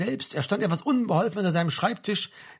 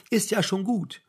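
gentle, higher placating voice; kindly reassurance; soothing; 4 semitones higher, slower than usual. A narrator's reading. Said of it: "mit beruhigender Stimme".

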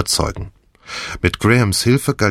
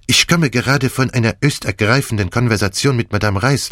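higher, lively Belgian detective, theatrical; Poirot voice; 4 semitones higher than usual. Acted. Poirot gloats to the feverish Hastings, theatrical and higher. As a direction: play the gleeful plotting Belgian with big swings.

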